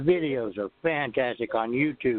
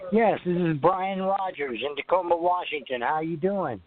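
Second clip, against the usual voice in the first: over the phone. Real, not acted. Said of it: "I couldn't quite hear you".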